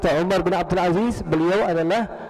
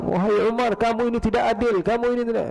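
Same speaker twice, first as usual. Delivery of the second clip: higher, accusing complaint; imitated angry scolding; 6 semitones higher than usual. Uyainah scolding Umar as unjust, imitated angry complaint. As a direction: play a mock angry telling-off. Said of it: "Marah-marah, dia bilang".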